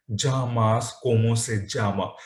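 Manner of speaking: llamas said with a j sound, jamas; llama with the Latin American ja; double L as j. Shown as a demonstration. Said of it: "two pronunciation of double L".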